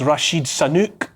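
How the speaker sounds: "Sanook" said in place of Sunak, as a quoted gaffe; mangled name. Retold or imitated. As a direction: imitate the botched name, "Rashid Sanook". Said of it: "memorably forgotten a while back as".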